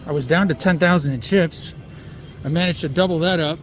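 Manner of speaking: muffled behind a mask; talking through a face mask. Real, not acted. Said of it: "I'm talking through this mask".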